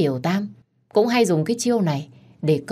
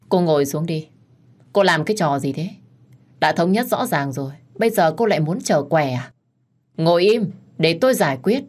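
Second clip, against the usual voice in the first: stern order. Acted. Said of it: "Bị chồng tôi quát lớn".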